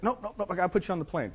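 high, insistent refusal; Carlos Nelson. Retold or imitated. Client overrules consultant on the trip, high insistence. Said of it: "Carlos has a penchant".

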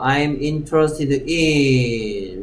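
slow model phrase ending on a long "in"; teacher holding on "in" so it is not dropped; stress on in. Shown as a demonstration. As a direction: draw out the final "in". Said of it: "in 꼭 써야 된다는 점과".

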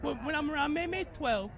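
ordinary delivery

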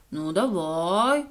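low, very drawn-out consent; hesitant agreement. A narrator's reading. The echo considers the sausage offer, low slow agreement. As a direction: agree slowly after mulling it over. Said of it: "трохи подумавши, погодилася луна".

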